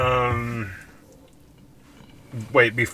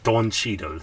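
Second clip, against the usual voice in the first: badly faked Cockney accent; failed Cockney attempt. Shown as a demonstration. Podcaster testing an impression, unconvincing Cockney. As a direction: try the name in mock Cockney. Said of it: "that wasn't even close".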